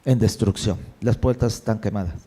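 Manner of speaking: a touch of sadness. Retold or imitated. Nehemiah tells the king of the burned gates, mildly sad. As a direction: let the grief weigh the words down, lightly. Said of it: "Él le dice".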